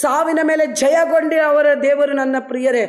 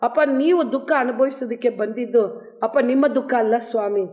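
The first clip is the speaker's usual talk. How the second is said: earnest prayer. Real, not acted. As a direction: pray humbly over the listeners. Leads closing prayer. (ವಿನಮ್ರವಾದ ಪ್ರಾರ್ಥನೆ)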